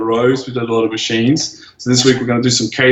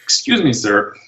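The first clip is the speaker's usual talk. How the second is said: impression of stranger; 2 semitones higher than usual. The old man at the cafe admiring him, lightly voiced gushing. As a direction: gush over the physique in a fawning voice. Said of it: "he goes".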